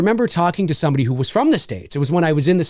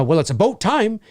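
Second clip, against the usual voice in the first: Canadian "a boat" for about, higher pitched; Canadian regional accent; 4 semitones higher than usual. Shown as a demonstration. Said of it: "you'll kinda hear that a bit".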